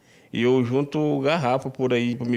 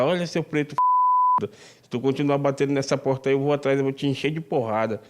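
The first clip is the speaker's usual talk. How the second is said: mildly raised, higher-pitched imitation of yelling; retold shout; 4 semitones higher than usual. Victim retelling the bus driver's racist threat, mild mock yell. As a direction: relay the driver's threat as a half-voiced shout. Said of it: "ele gritou de lá".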